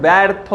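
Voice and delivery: ব্যর্থ as 'baertho', the first vowel like English 'bat'; demonstrated pronunciation. Shown as a demonstration. Teacher showing students how it is pronounced, ব্যর্থ with open 'ae'. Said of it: "অর্থাৎ এটার কি উচ্চারণ".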